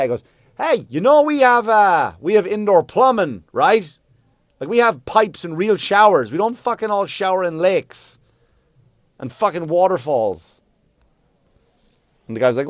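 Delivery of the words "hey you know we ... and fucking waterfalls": high, loud outraged rant; indignant protest, voice raised high; indignant shouting. Retold or imitated. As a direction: holler it through the studio glass. Tells off the producer through glass.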